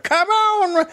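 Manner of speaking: put-on very high old miner voice; old prospector. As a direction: cry out like a crusty old miner. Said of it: "he's like".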